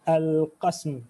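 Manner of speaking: al-qasm with no vowel between s and m; sukun on the S. Shown as a demonstration. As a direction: close "al-qasm" on a joined -sm, no a after the s. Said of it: "This is with the sukun, not with the fatha".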